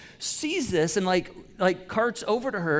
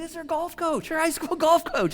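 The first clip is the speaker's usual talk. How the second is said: amazed; 12 semitones higher than usual. Retold or imitated. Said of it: "I'm like".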